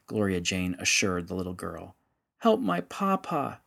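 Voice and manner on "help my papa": put-on high, slow, tearful child's plea; sobbing plea. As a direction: beg through sobs like a little girl. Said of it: "she sobbed".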